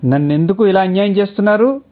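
high, loud plea breaking into pieces; heavy, broken cry of hurt from a wife; tearful plea. Acted. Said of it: "బరువుగా ముక్కలు ముక్కలుగా వచ్చింది". (ఏడుస్తూ, ఎత్తైన గొంతుతో బిగ్గరగా వేడుకోలు)

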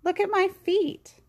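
high-pitched lightly voiced duck; a hint of duck in a high voice; quacking duck. A narrator's reading. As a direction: pitch it well up, like an eager duck. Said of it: "Duck quacked".

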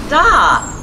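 high, loud shout of stop. A narrator's reading. Reader to children, truck stopping: loud high shout. Truck halts at trash cans.

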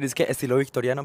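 quick fake-expert rush. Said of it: "iba a inventar".

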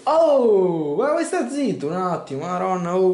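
sharp, loud telling-off; annoyed shout. Real, not acted. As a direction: shout at him to shut up. Yelling at someone nearby.

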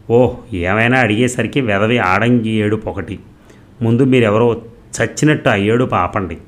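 loud, scornful shouting at her husband; wife shouting over her crying husband, loud and scornful; yelling. Acted. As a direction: bark it down at him with contempt. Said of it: "పెద్దగా అరవటం మొదలుపెట్టింది".

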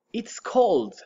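hushed whispered take. Shown as a demonstration. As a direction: whisper It's cold, cold. Teacher models cold two ways.

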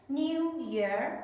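crisp classroom model; model for repetition. Shown as a demonstration. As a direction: clear teacher model, falling. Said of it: "listen and repeat after me".

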